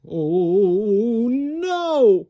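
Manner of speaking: loud shocked cry of dismay. A narrator's reading. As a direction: gasp it out to the kids. Button pops off.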